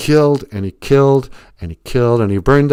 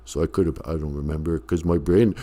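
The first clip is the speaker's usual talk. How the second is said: Stallone voice; 4 semitones lower than usual. Acted. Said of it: "sounded exactly like Sylvester Stallone".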